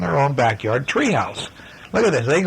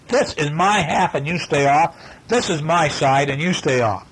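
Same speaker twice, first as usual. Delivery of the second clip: bossy claim; 4 semitones higher than usual. Acted. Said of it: "is what they said".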